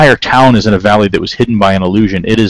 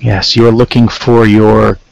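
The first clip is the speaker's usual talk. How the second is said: put-on slow, deliberate, lightly Terran-accented councilman. Councilman to visitors about their missing friends, light Terran accent. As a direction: speak slowly with a slight invented Terran accent. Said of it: "he has a strong Terran accent".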